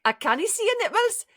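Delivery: high, sing-song Geordie try; comic go at a Newcastle accent; Geordie accent attempt. Shown as a demonstration. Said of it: "only line I can do in this accent".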